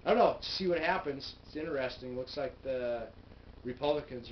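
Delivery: speaking past fingertip; finger against lips. Real, not acted. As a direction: hand touching mouth. Seen 4: Fingertip rests on lower lip throughout the labelled words.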